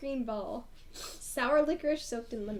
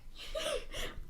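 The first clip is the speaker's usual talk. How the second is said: high, breath-only laugh; quiet high giggle; 13 semitones higher, 9 dB quieter than usual. Real, not acted. Reader amused by the book's name mix-up, quiet high laugh. Laughs after the quoted scene.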